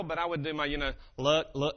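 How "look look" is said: rough presidential impression; George Bush Senior. Shown as a demonstration. Preacher demonstrating his presidential impression, none too well. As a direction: try out a president's catchphrase voice. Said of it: "I can't do George Bush Senior that well".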